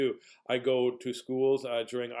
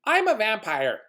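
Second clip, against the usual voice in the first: little girl playing vampire; 9 semitones higher, 7 dB louder than usual. Kindergarten girl announcing herself to the visitor, loud pretend vampire. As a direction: imitate a girl's loud, high vampire announcement. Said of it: "this girl just says to me".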